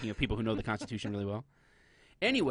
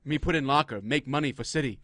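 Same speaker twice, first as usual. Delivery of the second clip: broken-English movie stereotype voice; lightly put-on stereotyped Native American voice; hint of old-western caricature; mock Native American; 4 dB louder than usual. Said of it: "You sound like a Native American Indian".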